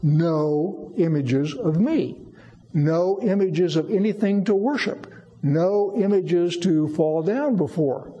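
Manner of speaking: slow, emphatic pronouncement on NO IMAGES; measured, emphatic repetition of "No images". Retold or imitated. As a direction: say "No images" deliberately, leaning on each word. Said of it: "God says very emphatically".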